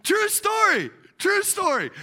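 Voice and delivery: emphatic aside. Real, not acted. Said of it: "insisting aside to congregation".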